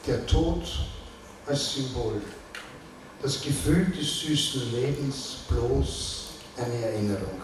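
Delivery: measured recital with falling line ends; poetry reading. Acted. Poet reading a tender farewell poem, measured recital. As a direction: leave space after each short phrase.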